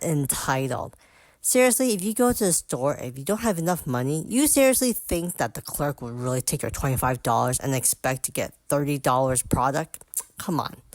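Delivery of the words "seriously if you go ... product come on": outraged. Real, not acted. Outraged rant about entitled woman.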